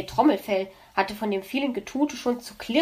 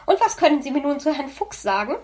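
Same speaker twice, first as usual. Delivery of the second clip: impatient; 4 semitones higher, 4 dB louder than usual. Acted. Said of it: "fragte Frau Elster etwas ungeduldig".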